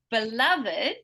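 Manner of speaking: "beloved" as be-LUV-id, LUV strongest; stress on second syllable. Shown as a demonstration. Teacher testing a student on stress, be-LUV-id in "beloved". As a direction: punch the middle syllable of "beloved". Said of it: "where am I going strongest".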